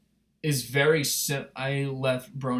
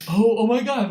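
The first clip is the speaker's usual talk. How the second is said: excited fan; 7 semitones higher, 6 dB louder than usual. Retold or imitated. Continued inner fan reaction.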